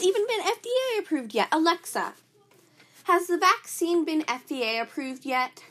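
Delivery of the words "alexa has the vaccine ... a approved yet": asking Alexa. Real, not acted. Asking the smart speaker.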